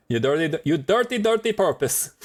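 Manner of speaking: lightly hammed-up Mrs Doubtfire accent. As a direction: scold like a mock Mrs Doubtfire. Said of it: "what is that accent though".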